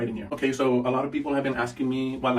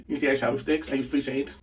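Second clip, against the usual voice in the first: slightly winded, breathing between words. Real, not acted. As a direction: talk while a little out of breath. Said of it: "I don't know why I'm out of breath".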